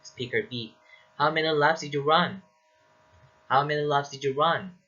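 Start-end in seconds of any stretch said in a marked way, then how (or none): 1.2-2.4 high, emphatic question held up until "run"; echo question intonation. Shown as a demonstration. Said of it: "it rises towards the end". 3.5-4.8 high-pitched question carried through to "run"; echo question intonation. Shown as a demonstration. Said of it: "it rises towards the end".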